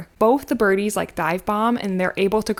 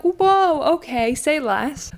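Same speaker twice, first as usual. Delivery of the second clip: high, loud whoa then easy agreement; hammed-up eager kids; mock eager girls; 7 semitones higher, 3 dB louder, much slower than usual. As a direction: girls agreeing too readily, mock excited. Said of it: "the girls are like".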